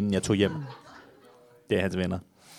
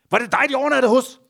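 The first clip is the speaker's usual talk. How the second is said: high, fast excited squeal of a question; excited fan; 11 semitones higher, faster than usual. Retold or imitated. Friend gushing to Olivia about the famous boys, high excited question. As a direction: rush it out, starstruck.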